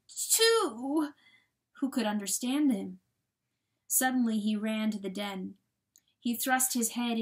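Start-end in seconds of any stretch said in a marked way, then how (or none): 0.1-1.1 high, falling wail; desperate begging. A narrator's reading. Coyote begging John to understand, desperate. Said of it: "nearly desperate".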